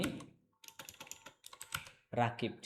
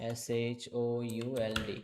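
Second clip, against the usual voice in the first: spelling it out. Shown as a demonstration. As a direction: spell the word letter by letter. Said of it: "শব্দটা হচ্ছে এই যেটা".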